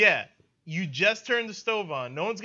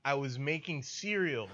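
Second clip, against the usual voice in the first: laughing confession; 4 dB louder, slower than usual. Retold or imitated. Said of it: "and I said".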